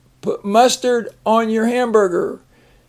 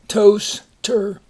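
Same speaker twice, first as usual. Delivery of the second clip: whispered syllable split. Shown as a demonstration. Teacher whispering the split to a reader. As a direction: whisper toaster split into toast and er. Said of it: "divides right there".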